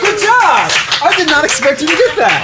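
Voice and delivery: loud, high cheer of surprise; excited cheering. Real, not acted. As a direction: cheer him on as he jumps. Cheering a jump.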